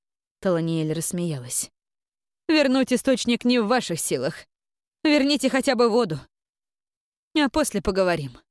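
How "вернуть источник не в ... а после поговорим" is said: imperious grande dame. Acted. Abbess dismisses her.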